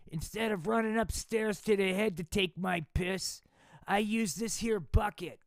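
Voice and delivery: hammed-up loud know-it-all dad. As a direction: boast it like a proud slob father. Pops lecturing his son.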